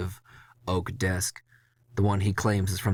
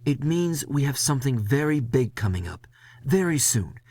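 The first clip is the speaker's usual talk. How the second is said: boss warning; 6 semitones higher than usual. Acted. Boss warning of big event.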